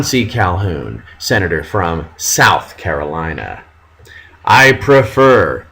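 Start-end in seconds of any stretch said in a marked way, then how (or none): 4.5-5.7 Henry Clay quote. Retold or imitated. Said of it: "says Henry Clay".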